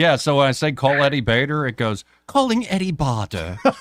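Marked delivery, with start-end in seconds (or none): 2.3-3.6 put-on British accent, phone assistant style. Explaining he set Siri to a British accent, the speaker mimics its reply: Siri British voice. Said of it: "I turned Siri to a British accent".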